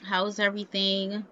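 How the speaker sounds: slow, drawn-out nice greeting; acted effort at a friendly hello; trying to be nice. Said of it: "She's gonna try to be".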